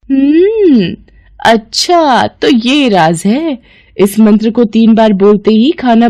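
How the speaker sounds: high knowing hum, then slow "so that's the secret"; the nosy sister-in-law who caught you out; sly discovery. Acted. Pinki overhears the mantra, sly and knowing.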